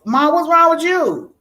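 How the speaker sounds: put-on high, anxious little-girl voice; worried child asking mom. Daughter to crying mom in bathroom: high, worried child voice. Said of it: "And I'm like".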